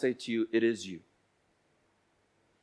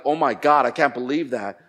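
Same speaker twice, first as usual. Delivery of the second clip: louder burst on "Oh my God", mildly shocked; mock shocked reaction; 4 dB louder than usual. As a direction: imitate someone scandalized by a confession. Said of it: "being shocked and crazy, like".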